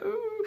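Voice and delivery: high, soft mock whimper; small high "ooh" of a weakling. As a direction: imitate a feeble little wail. Retold weakling struggling to get up.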